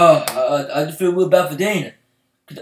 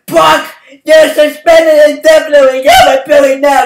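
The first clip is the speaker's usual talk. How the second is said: mock official; 8 semitones higher, 7 dB louder than usual. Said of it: "And then someone".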